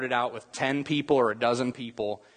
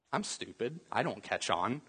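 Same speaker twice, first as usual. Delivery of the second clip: mock self-deprecation; 8 dB quieter than usual. Mocking himself to the waiter.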